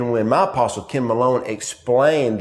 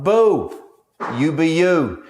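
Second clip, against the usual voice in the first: louder, much higher cheer; cheering encouragement; 6 semitones higher, 5 dB louder, slower than usual. Retold or imitated. Dad cheering his daughter on court, loud high encouragement. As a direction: call it out to lift her spirits. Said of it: "I'm like".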